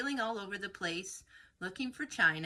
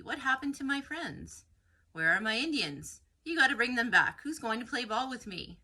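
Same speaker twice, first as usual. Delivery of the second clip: upset pleading; 4 semitones higher, 4 dB louder than usual. Acted. Coyote verlangt Freunde zurück.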